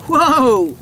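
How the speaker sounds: loud startled exclamation; startled whoa. A narrator's reading. Man startled at gunpoint, loud surprised whoa. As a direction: caught off guard, hands shooting up.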